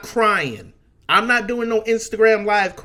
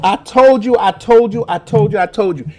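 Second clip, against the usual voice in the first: loud, higher I-told-you-so, fading as it repeats; 3 semitones higher, 8 dB louder than usual. Real, not acted. Host gloating at his co-host over the election, loud then fading.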